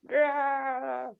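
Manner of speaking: short growling monster roar; owlbear noise. Acted. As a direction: growl it out like a beast. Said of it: "Bugbear, uh, owlbear noises".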